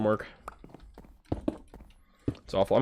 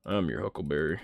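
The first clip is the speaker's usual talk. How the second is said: lightly voiced movie line, lower; movie quote; 4 semitones lower than usual. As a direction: quote the film line in a put-on low voice. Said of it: "What movie is that from?".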